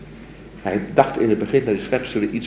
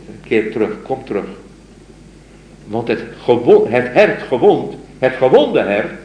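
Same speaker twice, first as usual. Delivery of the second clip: poem recital; 3 dB louder than usual. Acted. Lecturer reciting the mystic's poem to his students, solemn recital. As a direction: recite it like a devoted lover's plea.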